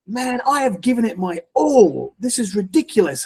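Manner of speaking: retold anger. Praying man at the end of his patience on day seven, retold anger. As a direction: act out fed-up anger without shouting. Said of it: "I'm just angry because I'm like".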